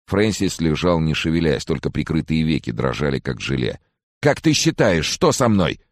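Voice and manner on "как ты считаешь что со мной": high, fretful question; anxious plea. A narrator's reading. Sick man asks friend what is wrong, anxious. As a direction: ask fearfully for a verdict.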